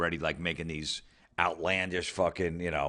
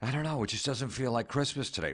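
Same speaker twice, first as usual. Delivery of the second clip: mock a sulky Californian who misses winter; a higher, softer sulky whine about the weather; whiny Californian; 5 semitones higher, 4 dB quieter, faster than usual.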